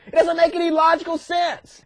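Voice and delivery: high-pitched exasperated protest; mock exasperation. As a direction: complain in hammed-up bafflement. Moses protests God's order.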